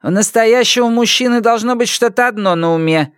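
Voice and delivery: put-on high curt old woman; curt high rebuke; cutting off. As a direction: cut him short. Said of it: "отрезала Люй".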